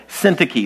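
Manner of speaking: Syntyche said as SIN-tih-kee, falling after the first syllable; first-syllable stress. Shown as a demonstration. Preacher repeating a name for the congregation, Syntyche stressed up front. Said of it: "The emphasis is on the first syllable".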